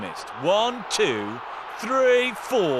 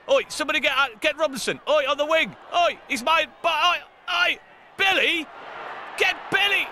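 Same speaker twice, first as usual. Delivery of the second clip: calling out; 10 semitones higher, much faster than usual. Pretend. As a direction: yell to teammates across the pitch. Voicing player calling for the ball.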